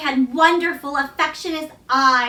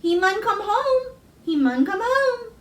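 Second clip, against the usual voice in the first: higher, with a catch of feeling; Yorkshire mother; 8 semitones higher than usual. A narrator's reading. Susan promising Colin his father will return, moved Yorkshire mother. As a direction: insist gently, moved. Mother voiced, near tears.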